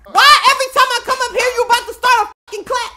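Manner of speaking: high, loud, fast playful outburst; exasperated yell. Pretend. Player fed up with the class starting, exasperated yell. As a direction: yell it fast in mock outrage.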